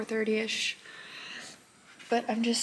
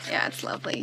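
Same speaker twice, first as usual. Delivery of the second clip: whisper; faster than usual. Real, not acted. Repeats answer softly.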